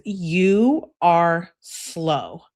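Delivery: read-aloud texting insult, dragged out; exasperated jab. Acted. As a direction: stretch each word out slowly in mild exasperation. Reading aloud an angry text argument.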